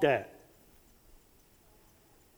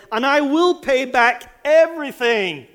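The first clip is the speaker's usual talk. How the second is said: higher, louder desperate plea; begging promise; 6 semitones higher, 5 dB louder than usual. A narrator's reading. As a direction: promise everything, begging hard. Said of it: "he begged".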